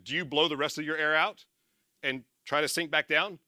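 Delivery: ordinary delivery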